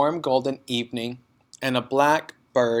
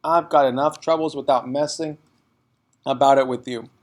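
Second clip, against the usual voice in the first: irritable father; 4 dB louder than usual. A narrator's reading. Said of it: "the father snapped".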